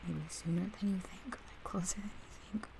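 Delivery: hushed, slowing and fading; tender near-whisper; gentle reassurance. Acted. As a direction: offer hope very softly. Gently reassuring a heartbroken friend.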